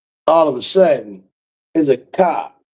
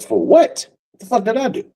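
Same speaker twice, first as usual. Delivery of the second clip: higher-pitched baffled protest; indignant disbelief; 10 semitones higher than usual. Retold or imitated. Man protesting to hotel security, high indignant disbelief.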